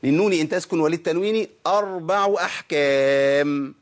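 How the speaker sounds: slow recitation, last word drawn long; reciting the verse. Retold or imitated. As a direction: quote the verse, stretching its final vowel. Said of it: "وده اللي قالهم الشيخ في المتن". (إلقاء المتن ببطء مع مد آخره)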